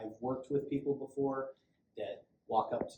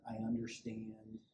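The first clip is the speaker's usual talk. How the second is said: soothing; 5 dB quieter, slower than usual. Shown as a demonstration. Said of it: "in that kind of voice".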